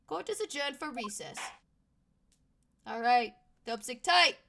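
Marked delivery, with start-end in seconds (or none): 2.9-4.4 excited. Real, not acted. Cheering himself on loudly.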